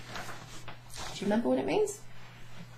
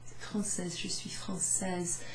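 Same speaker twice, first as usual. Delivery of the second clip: soft whispered correction, slow; correcting French speaker; 6 dB quieter, slower than usual. Retold or imitated. A French woman quietly correcting a learner. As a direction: gently correct the learner's mistake. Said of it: "they might say".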